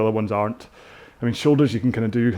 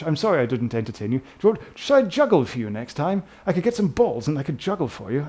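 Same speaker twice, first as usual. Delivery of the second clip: overly apologetic Brit; 2 semitones higher than usual. Pretend. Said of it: "sometimes I'm so British".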